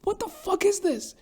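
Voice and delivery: retold own reaction. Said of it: "I was like".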